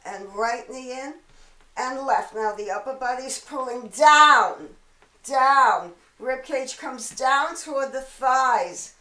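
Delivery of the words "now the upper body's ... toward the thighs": louder, driving coach call on down; pushing cue. Real, not acted. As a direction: shout the cue to push them down. Instructor cueing the crunch hard.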